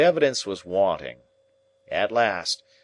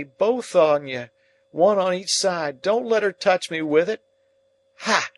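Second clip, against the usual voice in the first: very high, loud panicked screams; screaming in terror; 9 semitones higher, 6 dB louder than usual. Acted. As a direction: scream as the ghost closes in. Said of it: "with a scream and screams out".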